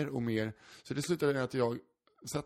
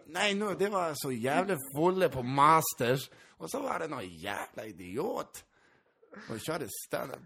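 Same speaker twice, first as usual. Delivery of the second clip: bad Gotlandic accent; 3 semitones higher, slower than usual. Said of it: "när jag ska droppa så här".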